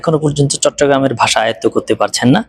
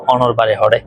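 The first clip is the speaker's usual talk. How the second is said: Chittagonian dialect; 3 semitones lower than usual. Shown as a demonstration. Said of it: "Chittagong ভাষায় বলতে গেলে".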